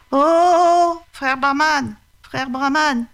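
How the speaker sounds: high, wheedling tiger voice; a sly tiger begging to be let out; high-pitched crafty tiger; pleading tiger. Acted. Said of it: "dit le tigre".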